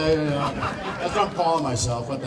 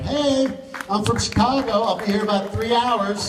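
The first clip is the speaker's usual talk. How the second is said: higher, chirpy mock mother greeting; imitating her mother; 5 semitones higher than usual. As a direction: play her mother breezing in, pitched up. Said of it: "my mother shows up tonight".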